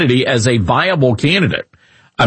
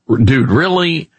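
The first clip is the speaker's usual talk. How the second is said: exasperated disbelief; 5 semitones lower than usual. Retold or imitated. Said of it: "you're like".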